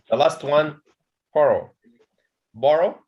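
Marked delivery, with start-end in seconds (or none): 1.3-3.0 "borrow" as BOR-row, weight on BOR; "borrow" said twice, stressed at the start; stress on first syllable. Shown as a demonstration. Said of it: "The stress also at the beginning".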